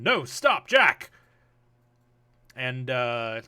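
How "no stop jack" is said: loud, high call after a runaway animal; urgent raised-voice command; shouting. Acted. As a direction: yell it out to call the wolf back. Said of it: "he shouts in common".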